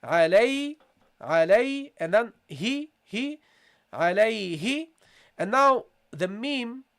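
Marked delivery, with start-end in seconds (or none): 0.0-4.9 "Alay", then "he", then "alayhi" built up; syllable drill. Shown as a demonstration. Teacher drills a class on alayhi, step by step. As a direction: build "alayhi" piece by piece. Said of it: "So it is alay".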